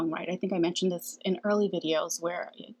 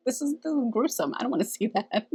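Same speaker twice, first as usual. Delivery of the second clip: mock disgust; 4 semitones higher than usual. Retold reaction to gruesome hawk.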